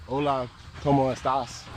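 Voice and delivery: Spanish greeting in a light American English accent; hola cómo estás with flat American English vowels. Shown as a demonstration. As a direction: say it like a gringo tourist. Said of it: "with the English accent".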